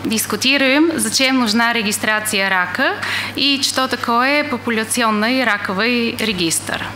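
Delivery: Russian with an English accent; non-native Russian, English accent. Real, not acted. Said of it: "я не очень хорошо говорю по-русски".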